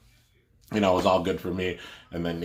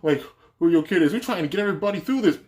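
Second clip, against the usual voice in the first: high, loud mock outburst; retold angry rant with bleeped gaps; imitating cursing manager; 11 semitones higher, 4 dB louder than usual. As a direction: snap it out as a fed-up security boss. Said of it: "He actually starts cursing".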